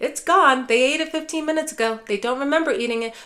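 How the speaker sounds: telling dad off with facts, mock-exasperated; exasperated correction.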